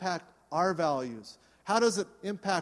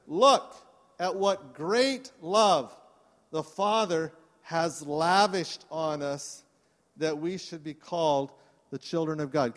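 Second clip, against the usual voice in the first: slow, emphatic reading; scripture reading. Acted. Pastor reading First John to the congregation, slow. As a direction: linger on great love.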